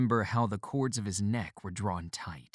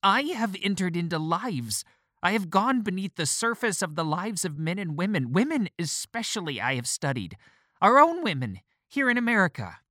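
very high, strained and loud; piercing shrill outburst, much higher and louder; 10 semitones higher, 6 dB louder than usual. A narrator's reading. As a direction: voice cracking upward at our own women. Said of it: "His voice had indeed become shrill".

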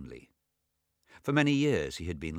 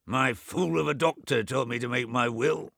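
put-on high, loud, testy old man in bed; a cranky old man scolding his brother; irritable old invalid; 5 semitones higher, 3 dB louder than usual. Bedridden Swithin chiding his deaf twin, high and testy.

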